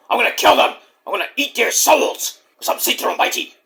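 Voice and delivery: a hint of a whispered devil voice; half-joking demonic menace; playful Satan voice. Speaker voices Satan talking back.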